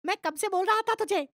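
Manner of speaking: high, heated scolding of his friend; angry quarrel. Acted.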